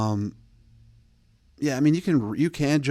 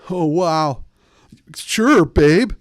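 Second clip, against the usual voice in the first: higher, louder gushing voice; hammed-up eager texter; mock overeager reply; 5 semitones higher, 7 dB louder, much slower than usual. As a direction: overdo the instant excited reply.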